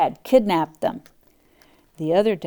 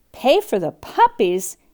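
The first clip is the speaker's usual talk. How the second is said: gasping; 4 semitones higher, 4 dB louder than usual. Acted. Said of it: "gasped Anita".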